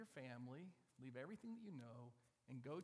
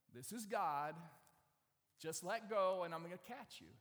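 loud, booming voice from heaven; James Earl Jones; 9 dB louder than usual. Acted. God telling the man to let go, booming. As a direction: declare it big and commanding. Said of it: "sounds just like James Earl Jones".

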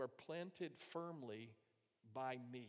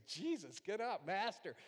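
high, loud urgent pleading; frantic cry; 6 semitones higher, 7 dB louder than usual. Acted. Disciples waking Jesus in the storm, frantic. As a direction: cry out to shake a sleeper awake. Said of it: "shook him like crazy".

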